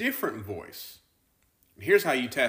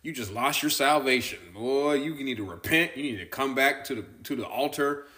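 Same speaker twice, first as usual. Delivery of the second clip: a hint of a scolding revival preacher; lightly mock the finger-wagging altar call; mild hammed-up hellfire preacher; law voice; 2 semitones higher than usual. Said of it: "they're gonna hear the law voice".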